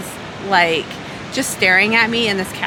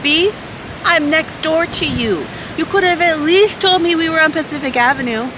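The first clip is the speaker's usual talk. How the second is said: sassy pretend comeback; 7 semitones higher than usual. Vlogger imagines snapping back at the waitress next door, high exasperated sass. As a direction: let her have it, half-joking, pitched way up.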